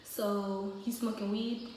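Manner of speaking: slow, even, calm question; unhurried, level dad asking. Retold or imitated. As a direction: imitate dad asking calmly, in no rush. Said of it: "he's real calm".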